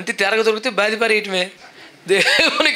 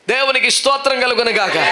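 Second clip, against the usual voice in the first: shouted praise; 4 semitones higher than usual. Real, not acted. Preacher rousing the congregation, shouting the praise.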